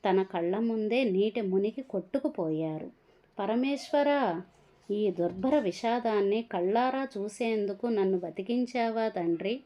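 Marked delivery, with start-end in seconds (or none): 3.4-9.6 lament. Acted. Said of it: "వాపోయాడు".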